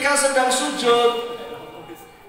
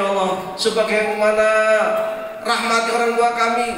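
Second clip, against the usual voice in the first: recited prayer; 3 semitones lower than usual. Acted. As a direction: pray it humbly before God. (doa yang dilantunkan pelan dan khusyuk)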